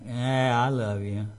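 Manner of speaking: bored, dismissive "Yeah, I love you"; eye-rolling I love you. Shown as a demonstration. Preacher showing a bored, eye-rolling answer to a spouse. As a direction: sigh out "I love you" while rolling your eyes. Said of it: "Roll your eyes".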